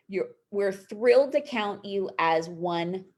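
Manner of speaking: talking with a dry mouth; words sticking in a dry mouth. Real, not acted. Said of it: "Sorry, my mouth is so dry right now".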